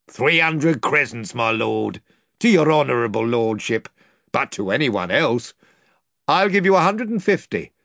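sly pricing for the lord; haggling slaver. Acted. Pug quoting his price to the lord, oily.

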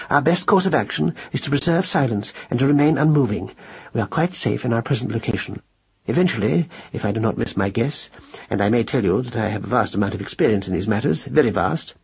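measured, mildly self-important lecture; long-winded mouse gentleman, understated; lightly voiced pompous father. Mouse father advises family under the cat, mildly pompous.

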